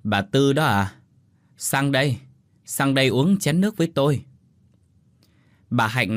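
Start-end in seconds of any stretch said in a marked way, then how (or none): 0.0-4.2 lightly voiced old neighbour, raised voice; a hint of an elderly villager; old woman answering. A narrator's reading. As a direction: call back an invitation from the porch. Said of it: "khó nhọc ra hiên nhà đáp".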